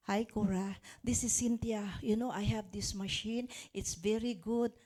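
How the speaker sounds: low-energy, half-whispered sales pitch; deliberately limp, lifeless phone call. Shown as a demonstration. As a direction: mumble it like you don't believe in it. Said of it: "No energy".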